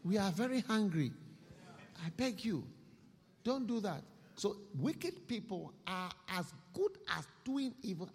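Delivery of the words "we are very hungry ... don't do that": high, loud desperate begging; begging thief. Acted. Preacher voicing a caught thief begging, high and pleading. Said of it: "you see how he'll beg".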